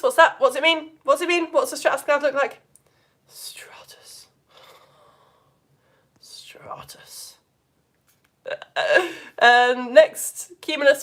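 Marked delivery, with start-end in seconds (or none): 3.3-4.3 dull hushed whisper; boring, blanketed. Shown as a demonstration. Teacher demonstrating a boring blanket cloud, bored whisper. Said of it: "really boring, like, blanket layered one". 6.2-7.4 dull hushed whisper; boring, blanketed. Shown as a demonstration. Teacher demonstrating a boring blanket cloud, bored whisper. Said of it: "really boring, like, blanket layered one".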